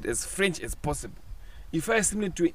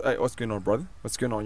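Australian accent; 6 semitones lower, 4 dB quieter than usual. Shown as a demonstration. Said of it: "this is Australian".

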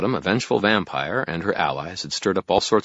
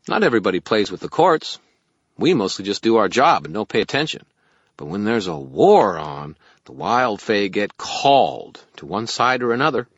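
loud, raised little fairy voice; 5 semitones higher, 7 dB louder than usual. Acted. Fairy explains the war to the wizard, fairy voice. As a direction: explain it in a high fairy pipe.

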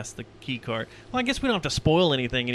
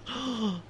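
gasp; 10 semitones higher, 6 dB quieter than usual. Retold or imitated. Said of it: "I was like".

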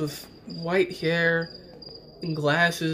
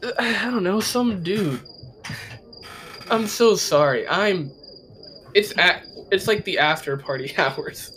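panicking gamer; 3 semitones higher than usual. Acted. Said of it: "He just starts giggling".

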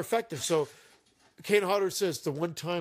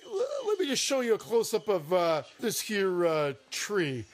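dopey cartoon bellow; 5 semitones higher than usual. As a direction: play it up like a dopey brute. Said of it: "he's like".

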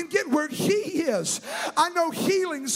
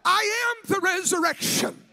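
proclaiming Jesus; 4 semitones higher, slower than usual. Acted. Preacher voices Jesus declaring resurrection.

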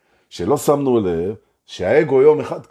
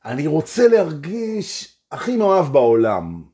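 sincere wish; 4 semitones higher than usual. Shown as a demonstration. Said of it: "זאת אומרת".

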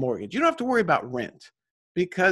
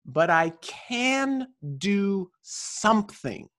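very slow, each word weighed; slow reading of a quote; 3 semitones higher, much slower than usual. Shown as a demonstration. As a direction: lean slowly on can. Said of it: "So she says".

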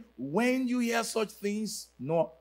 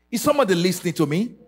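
calling out; 6 dB louder, faster than usual. Real, not acted. Preacher challenging the congregation.

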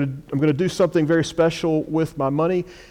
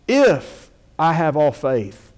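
If I have all faith read slowly, leaning on If; slow down and weigh the If; stress on if; 2 semitones higher, 4 dB louder, slower than usual. Shown as a demonstration. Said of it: "emphasizing the word if".

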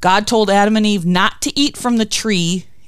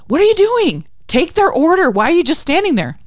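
higher-pitched mock scolding, jumping up at the start; mad cartoon boss; 9 semitones higher than usual. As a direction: act out Daffy's exasperated telling-off. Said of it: "he gets mad at me".

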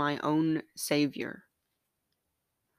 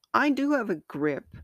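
mock shout; 7 semitones higher than usual. A narrator's reading. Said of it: "heart shouted".

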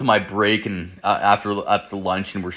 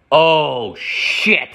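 stretched, higher mock shock; dawning realisation; 3 semitones higher than usual. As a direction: let each word hang as it sinks in. Same realisation, repeated for effect.

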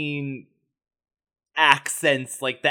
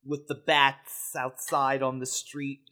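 put-on tough New York accent; 4 dB quieter than usual. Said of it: "tough New York accent".

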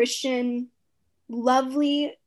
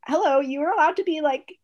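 emphatic, raised-pitch indignation; mock-outraged loyal friend; 3 semitones higher, 4 dB louder than usual. Friend defending her wronged friend, playfully outraged. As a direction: fire up on your friend's behalf, half-joking.

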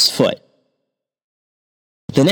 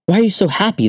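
puzzled hangman; 9 semitones higher, faster than usual. A narrator's reading.

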